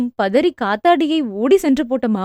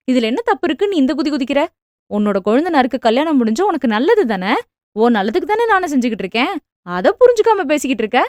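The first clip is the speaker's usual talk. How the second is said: angry scolding; faster than usual. Acted. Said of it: "மகளை கோபமாக திட்டினார்".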